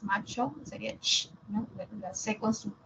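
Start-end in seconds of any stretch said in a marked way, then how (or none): 1.0-1.3 "ch" alone as a hushed palatal consonant; isolated ch sound. Shown as a demonstration. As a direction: demonstrate "ch" with no vowel after it. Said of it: "Ambos son palatales".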